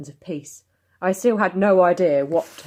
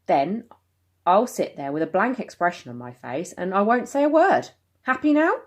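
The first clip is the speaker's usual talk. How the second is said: sarcastic; 3 semitones higher, 3 dB louder than usual. Acted. Mum sarcastic in quarrel.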